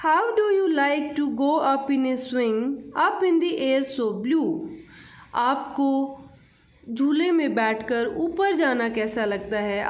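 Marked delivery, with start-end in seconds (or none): 0.1-4.6 slow, measured reading of verse; poem recitation. Acted. Teacher reading a poem to children, slow recitation. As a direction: read each line out slowly for children.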